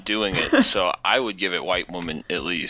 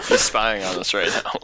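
laughing. Real, not acted. Laughing at the spying guest.

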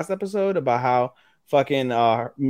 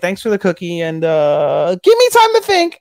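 flustered, rising much higher and louder at the end; 7 semitones higher, 6 dB louder than usual. Retold or imitated. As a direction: squeak it out like a flustered girl. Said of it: "she starts getting all flustered".

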